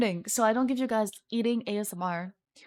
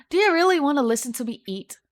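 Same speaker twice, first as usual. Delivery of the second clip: incredulous; 5 semitones higher, 8 dB louder, faster than usual. Real, not acted. Incredulous at viewers' mukbang request.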